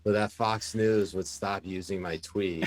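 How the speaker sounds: chuckling as he finishes the punchline; laughing through words. Real, not acted. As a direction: let a laugh break into the words. Laughing while telling funny story.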